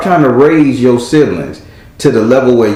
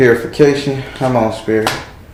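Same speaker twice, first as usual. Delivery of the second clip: ordinary talk, nothing marked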